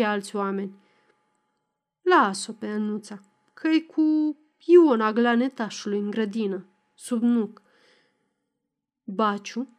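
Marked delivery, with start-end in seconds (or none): none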